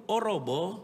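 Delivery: lightly voiced unbothered reaction; calm phlegmatic person. Preacher plays phlegmatic man watching a collapse, mildly unbothered. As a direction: play mild indifference to disaster. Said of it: "orang flekmatik ini orang yang tenang".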